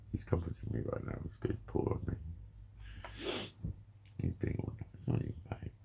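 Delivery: hushed whisper to the pet; tender whisper to a pet; soft whisper. Real, not acted. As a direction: whisper so you don't disturb the animal curled up beside you. Whispering about and to his pet.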